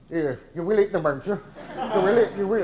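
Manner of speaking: ordinary delivery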